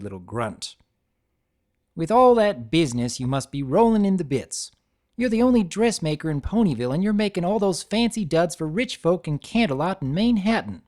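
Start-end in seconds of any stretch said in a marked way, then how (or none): 1.9-10.8 put-on country accent. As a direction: needle her in a country twang. Applejack's country voice.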